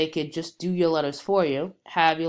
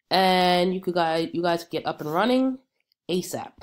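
stuffy nasal voice from a cold. Real, not acted. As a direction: speak through a blocked nose. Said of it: "excuse the nasal voice".

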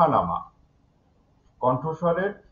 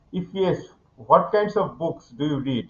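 slow textbook reading; much slower than usual. Shown as a demonstration. Teacher reads textbook question aloud.

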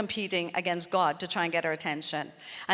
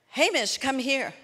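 lightly voiced shepherd's call, raised pitch on the name; a hint of a shepherd calling, higher on "Hamish"; shepherd calling sheep; 4 semitones higher than usual. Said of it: "when the shepherd calls to one of the sheep".

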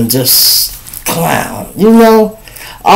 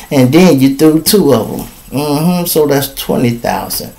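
hotel manager; 3 dB quieter than usual. Acted. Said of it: "the hotel people said".

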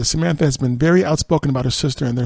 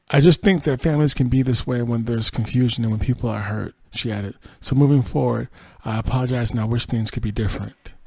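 quoted statement in a steady reading voice; news read. Acted. Host reading Samantha's apology to viewers, news read.

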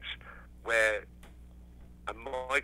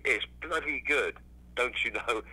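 best English accent; slower than usual. Shown as a demonstration. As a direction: put on your best "don't you know" English accent, drawn out. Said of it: "best English accent".

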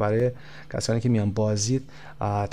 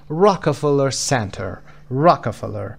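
slow "Rockefeller Center", strong "Rock" and "Cen"; stress on ROCK and CEN; much slower than usual. Shown as a demonstration. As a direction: lean on the first syllable of "Rockefeller" and of "Center". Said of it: "قسمت آر او و سنتر".

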